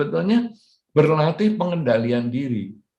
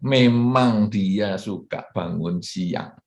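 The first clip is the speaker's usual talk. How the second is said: calm acceptance; 4 semitones lower, much slower than usual. Shown as a demonstration. Calm acceptance after complaint.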